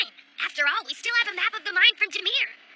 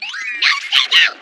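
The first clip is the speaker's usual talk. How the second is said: urgent shout; 6 dB louder, much slower than usual. Acted. Urgent warning in mine.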